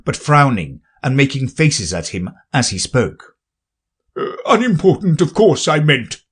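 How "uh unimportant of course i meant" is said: hasty king. Acted. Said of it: "the king hastily said".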